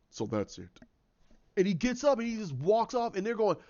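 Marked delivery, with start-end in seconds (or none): 0.1-0.7 very low, restrained villain. Acted. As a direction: drop it down low for a cold realization. Acting out the villain's line.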